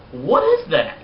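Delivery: a real crack in the voice mid-question. Real, not acted. Vlogger's voice cracks by accident as he asks. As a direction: voice breaks on this question. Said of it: "My voice just cracked".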